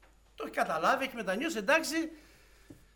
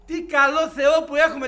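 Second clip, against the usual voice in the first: louder repeat; 8 semitones higher, 15 dB louder than usual. Real, not acted. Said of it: "repeated louder".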